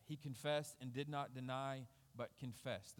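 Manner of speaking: "confessed" leaned on both times, the second falling away; emphasis on confessed. Shown as a demonstration. Preacher reading scripture to the church, stressing "confessed". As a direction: read the verse stressing "confessed". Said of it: "There's an emphasis there".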